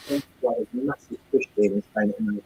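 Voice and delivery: garbled, like talking underwater; bad connection, voice sounds underwater. Real, not acted. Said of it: "You sound like you're underwater".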